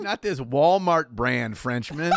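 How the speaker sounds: slow, laughing through the words. Real, not acted. Mocking the fake Frenchman, slow and laughing. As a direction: stretch it out, cracking up.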